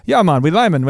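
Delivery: hammed-up Trinidadian accent; Afraz. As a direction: imitate an easygoing Trinidadian local, accent and all. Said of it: "I'm probably doing a horrible accent".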